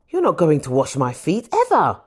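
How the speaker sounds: rising to an emphatic ever; firm, rising protest; insistent refusal. Acted. Peter refuses foot washing.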